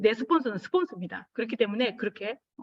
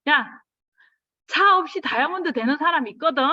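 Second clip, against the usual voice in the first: blunt husband; 5 semitones higher, 5 dB louder than usual. Retold or imitated. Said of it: "저희 남편이 이래".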